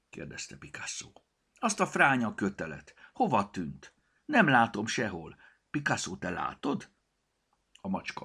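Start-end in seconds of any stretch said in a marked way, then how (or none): 1.5-6.9 put-on girl character. Girl searching for the rope.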